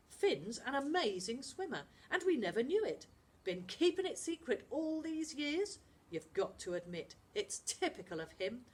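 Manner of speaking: lightly voiced boy, dismissive; scoffing boy voice. Charlie to the others, mildly scoffing. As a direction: brush the magic aside.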